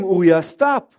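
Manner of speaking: loud stern father, stop; firm dad command. Retold or imitated. Father warning son on the couch, loud and stern. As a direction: tell the boy firmly to stop. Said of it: "And I tell him".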